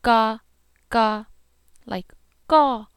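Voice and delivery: "Ga" said crisp and loud; Hmong ga. Shown as a demonstration. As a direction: repeat "ga" cleanly. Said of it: "Here's the ta again".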